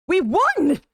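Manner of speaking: high, loud cry of triumph; victory shout. Acted. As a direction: shout it out as a win. Reads a victory shout aloud.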